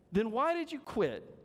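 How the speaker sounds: high curious question, lightly voiced; a touch of puzzled man asking; voicing the man. Preacher voicing the man quizzing the dog, high and curious.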